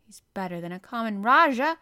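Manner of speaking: loud, heated retort; sharp retort. A narrator's reading. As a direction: throw it straight back at him. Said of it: "retorted Mary".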